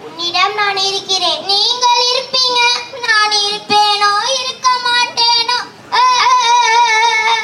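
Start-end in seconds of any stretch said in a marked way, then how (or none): 1.5-7.4 high, sobbing lament; a gardener sobbing to Birbal, higher and whimpering; wailing gardener. Acted. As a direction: moan over your doomed life. Gardener wails about his fate.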